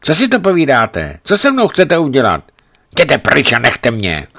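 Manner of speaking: high, loud frightened pleading, slowing at the end; delirious fear. A narrator's reading. Sick woman begging the men to leave her, high and loud. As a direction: push them away in a feverish panic.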